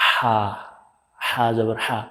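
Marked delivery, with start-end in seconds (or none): 0.1-0.4 হা with a tight throat and a hoarse rush of breath; Arabic ha in হা, breathy and pressed; pressed throaty h. Shown as a demonstration. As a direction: squeeze the throat for হা. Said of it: "গলাটা একটু চাপ দিয়ে বলতে হবে".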